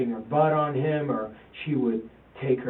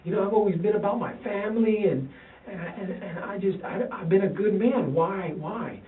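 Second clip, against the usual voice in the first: retold crying plea; 6 semitones higher than usual. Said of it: "and I'm crying".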